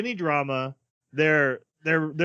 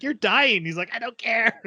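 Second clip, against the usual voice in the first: mock dramatic; 8 semitones higher, 3 dB louder than usual. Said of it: "She's like / He's like".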